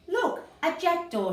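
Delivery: excited shout. Acted. Children shouting as they spot the jackdaw. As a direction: call out in delight. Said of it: "shouted the children".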